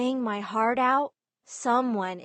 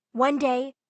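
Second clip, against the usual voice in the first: ordinary delivery, nothing marked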